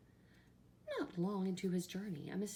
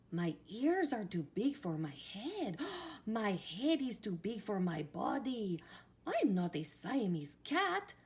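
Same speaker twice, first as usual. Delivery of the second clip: hammed-up Spanish accent, higher-pitched; 4 semitones higher, 6 dB louder than usual. A narrator's reading. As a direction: declare it in a dramatic storybook Spanish accent. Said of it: "using his very best Spanish accent".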